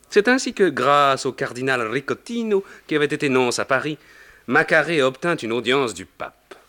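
usual speaking voice

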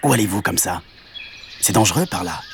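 small, understated hedgehog character; lightly voiced hedgehog. Hedgehog warns the cow, lightly voiced. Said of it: "C'était un petit hérisson".

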